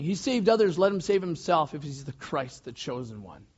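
mock the man on the cross; mocking taunt. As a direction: throw it up as a taunt. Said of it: "They're mocking, they're sneering, they're taunting".

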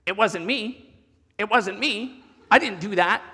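lightly voiced old gremlin woman. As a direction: imitate a kid quoting an old gremlin. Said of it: "an old gremlin woman that she goes".

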